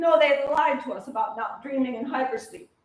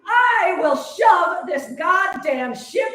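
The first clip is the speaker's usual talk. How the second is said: furious rant; 7 semitones higher, 4 dB louder, slower than usual. Acted. Rage peaks at captors.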